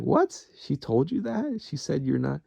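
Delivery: high, stunned what; shocked disbelief. Retold or imitated. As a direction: voice jumps way up in disbelief. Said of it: "I was like".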